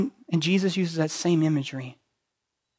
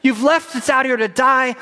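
whiny complaint, higher, louder and fast; hammed-up moaning of the wanderers; mock grumbling; 8 semitones higher, 9 dB louder than usual. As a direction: complain like sulking Israelites. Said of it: "they're grumbling".

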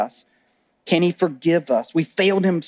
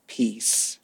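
"Peace." much softer and lower, gently voiced; soft spoken peace; 7 semitones lower, 9 dB quieter than usual. Shown as a demonstration. Preacher repeating Jesus's word to the congregation, hushed. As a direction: breathe out "Peace." quietly but with voice. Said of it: "one word spoken two times".

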